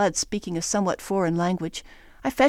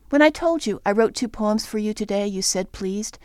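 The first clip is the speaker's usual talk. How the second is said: poem reading. Acted. Poet reads final poem.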